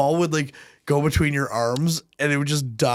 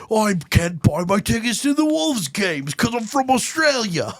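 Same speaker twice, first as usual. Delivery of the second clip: mock whiny character; 7 semitones higher than usual.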